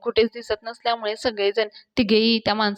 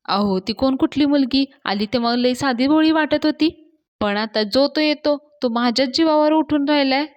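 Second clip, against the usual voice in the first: घाबरलेला; 4 semitones higher, 4 dB louder than usual. Acted. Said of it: "माणूस खूप घाबरलेला असतो".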